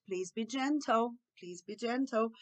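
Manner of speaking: slow, tender coaxing; gentle request. Shown as a demonstration. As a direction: coax a child gently and slowly. Models gentle replacement phrase. (pedido lento e carinhoso)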